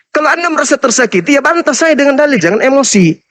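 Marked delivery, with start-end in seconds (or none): 2.4-3.2 whispered taunt, no voice; a teasing whisper: don't get upset; mocking whisper. Real, not acted. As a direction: breathe it out as a jeer. Taunting opponent to stay calm.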